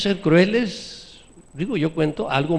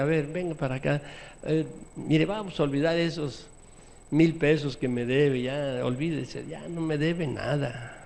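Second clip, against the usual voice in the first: softer, gentle forgiving voice; a touch of kindly creditor; 4 dB quieter than usual. Pretend. Preacher acting a lender who forgives a debt, soft. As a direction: reassure the debtor kindly.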